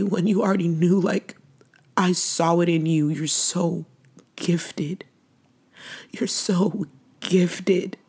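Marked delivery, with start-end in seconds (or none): 3.1-5.0 whispered. Real, not acted. Whispered praise to late brother. 6.1-8.0 slow whisper. Real, not acted. Repeated, slower whispered praise.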